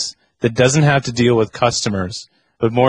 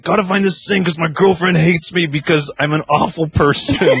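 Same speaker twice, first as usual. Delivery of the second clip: laughing through a mock customer line; laughing mock quote; 6 semitones higher than usual. Mocking the rude customer while laughing. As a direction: giggle while voicing the guy. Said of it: "he was just like".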